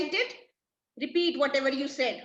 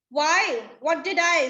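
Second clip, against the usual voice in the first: surprised protest; 4 semitones higher, 5 dB louder, slower than usual. Acted. Trinculo protests innocently.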